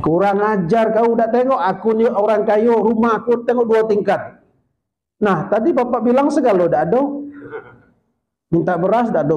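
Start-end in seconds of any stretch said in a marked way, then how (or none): 0.0-4.4 higher, indignant scolding; a proud rich man offended by a beggar; mock outrage at the insult; angry rich man.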